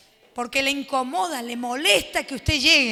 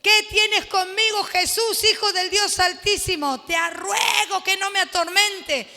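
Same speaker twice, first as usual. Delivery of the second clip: demon pleading; 2 semitones higher than usual. Acted. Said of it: "Mire cómo dice".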